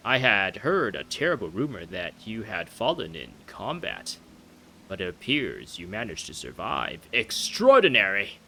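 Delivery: grand, singsong royal storytelling; astonished old king. Acted. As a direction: build to a booming royal exclamation. Voices the king.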